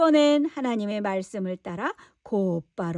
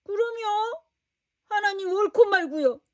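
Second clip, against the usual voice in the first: higher, stubbornly angry reply; angry insistence; 7 semitones higher, 3 dB louder than usual. Acted. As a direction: insist sulkily to God. Jonah angrily insists. (하나님께 높은 소리로 우기는 요나)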